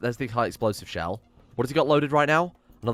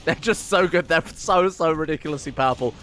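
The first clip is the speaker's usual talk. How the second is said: laughing delight; 3 semitones higher than usual. Real, not acted. Admiring plasma guns.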